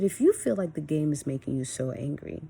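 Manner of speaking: even retold parental talk; calm, controlled tone. Mom re-enacting talking to her angry son, calm. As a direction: reason with them, temper in check. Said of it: "I kept this tone of voice".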